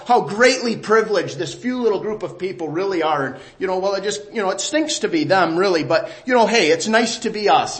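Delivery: mock smug, self-satisfied believer; smug, privileged church voice mocked; sarcastic smugness. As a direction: play the smug insider sneering at outsiders. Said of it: "Oh, that, that's nice, isn't it?".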